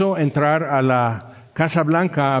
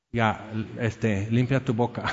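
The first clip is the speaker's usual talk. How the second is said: hushing parent; 4 semitones lower, 6 dB quieter than usual. Retold or imitated. Parent hushing child at supper.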